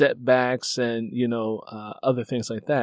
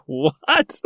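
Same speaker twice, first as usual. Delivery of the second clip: retold surprise; 3 semitones higher than usual. His stunned reaction retold.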